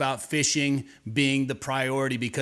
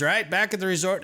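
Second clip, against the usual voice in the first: higher-pitched imitated Southern voice; Southern accent; 5 semitones higher than usual. Angler checking with a fellow resort guest, Southern accent. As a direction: ask it as a put-on Southerner. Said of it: "they have a Southern accent all of a sudden".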